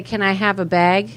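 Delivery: Minnesota accent, bag like beg. Shown as a demonstration. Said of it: "if you hear me say".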